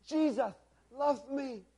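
high, slow, put-on boyish voice; Bernie's earnest voice. A narrator's reading. Preacher voicing Bernie to the boys, earnest high voice. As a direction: say it slowly and high, word by word. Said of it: "he breathed in a hoarse whisper".

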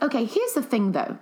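indignant retold comeback; retold clapback. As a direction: set them straight, voice lifted. Retelling her clapback to trolls.

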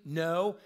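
loud, instant "no"; emphatic no. Retold or imitated. People asked whether we should judge, emphatic. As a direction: punch "no" hard and loud. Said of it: "Emphatically, instantly".

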